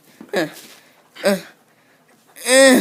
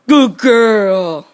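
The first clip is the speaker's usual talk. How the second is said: firmer, louder praise; 5 dB louder than usual. Real, not acted. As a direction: say it out loud to the dog. Praising the dog twice.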